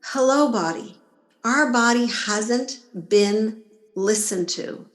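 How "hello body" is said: simple, unhurried greeting, then stop; calm hello. Shown as a demonstration. Greeting her body calmly, then falling quiet. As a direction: say it and leave space. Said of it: "And then be quiet".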